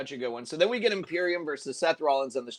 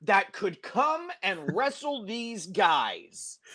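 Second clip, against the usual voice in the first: hinting Triple H; 2 semitones higher, slower than usual. Retold or imitated. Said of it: "Triple H goes".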